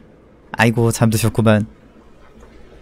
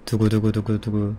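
mouth drumroll; 3 dB quieter than usual. Pretend. Mock drumroll before score.

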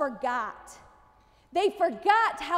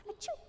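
sneeze; 8 semitones higher, 14 dB quieter than usual. Shown as a demonstration. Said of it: "What does that sound like?".

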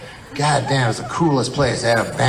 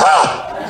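sharp unvoiced gasp of fright; breathy startled ah; 2 semitones higher than usual. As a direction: gasp at your reflection. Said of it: "you go".

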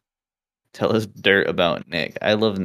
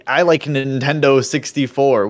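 mocking nerd voice; 5 semitones higher, 5 dB louder, slower than usual. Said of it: "It's fucking".

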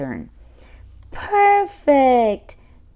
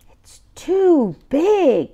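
lightly voiced baby; 5 semitones higher, 4 dB louder, slower than usual. Baby picks a pumpkin.

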